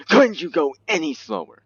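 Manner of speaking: very high mock exasperation; shrill cartoon complaint; squeaky voice. Squeaky voice at slow lifeboats.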